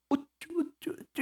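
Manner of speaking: put-on high-pitched cooing, as to a baby; coaxing. Shown as a demonstration. Pastor mimicking flattery to win people over, coaxing. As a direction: playfully wheedle someone onto your side. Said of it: "살살살 요렇게 달래가지고".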